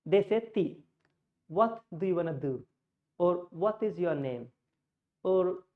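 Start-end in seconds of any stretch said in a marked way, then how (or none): 0.5-2.6 imitated Middle Eastern accent with dental t. Teacher showing how a Middle Eastern guy speaks, Middle Eastern accent. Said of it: "a Middle Eastern guy. They say". 3.5-4.5 imitated Middle Eastern accent, a little understated. Teacher giving another example, Middle Eastern accent. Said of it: "that's how they speak".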